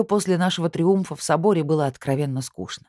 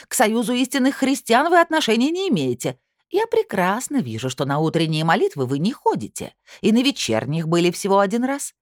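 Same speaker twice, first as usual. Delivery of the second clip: high shrill screeching tirade; shrill screeching bird woman; 6 semitones higher than usual. Acted. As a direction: keep screeching, outraged. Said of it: "пронзительно заверещала она".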